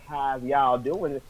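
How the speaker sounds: slow, drawn-out southern drawl; southern accent. Shown as a demonstration. Fan showing how the character talked, slow southern accent. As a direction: put on a slow southern twang. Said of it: "a southern, like".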